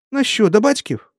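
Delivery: put-on high old village woman's question; old woman asking. A narrator's reading. Old woman asking Valentin, high and anxious. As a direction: ask it in a high granny voice.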